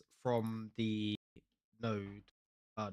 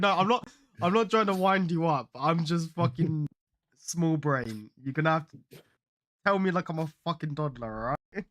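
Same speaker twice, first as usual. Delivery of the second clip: laughing; 3 semitones higher, 4 dB louder than usual. Real, not acted. Self-mocking apology while laughing.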